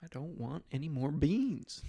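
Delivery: a hint of a sulky ranch hand; movie cowboy quote. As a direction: drag it out like a sullen cowboy. Quoting Brokeback Mountain scene.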